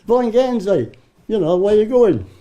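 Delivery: calling out across the road; mild mock yell to a passing tank; retold shout. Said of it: "And I shouts".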